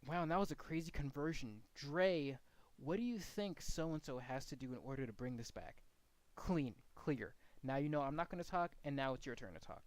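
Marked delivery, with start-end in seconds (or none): 0.1-5.8 demo handoff. Shown as a demonstration. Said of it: "a direct address to signify that I'm done talking by saying".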